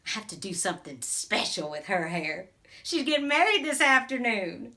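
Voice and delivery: a lightly played small-town beautician, gossiping to a newcomer; a hint of a gossipy Southern salon lady holding court; chatty Southern hairdresser. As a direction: talk like the salon owner who knows everyone's business. Character monologue, beauty salon owner.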